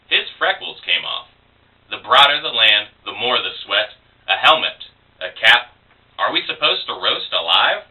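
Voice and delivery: measured recital in short phrases; poetry reading. Acted. Poet reading a collage poem to listeners, measured recital. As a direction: read it as verse, pausing after each line. Reads own poem aloud.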